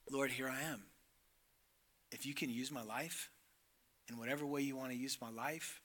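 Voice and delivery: soft, humble surrender to the Lord. Retold or imitated. Isaiah answering God, soft and humble. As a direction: quietly offer yourself, nothing held back. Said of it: "responds in very humble tone".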